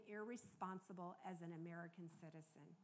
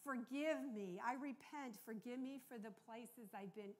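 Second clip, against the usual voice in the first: earnest prayer; 3 dB louder than usual. Retold or imitated. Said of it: "here's what I prayed".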